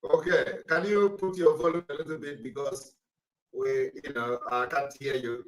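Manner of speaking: straining to reach a caller on a weak line. Real, not acted. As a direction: speak up so the caller hears. Host asks caller for volume.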